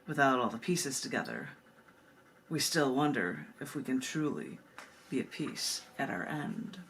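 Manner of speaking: measured, solemn poem recital; poem reading. Acted. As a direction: read it like a grave, pondering poem. Reads an Aztec poem aloud.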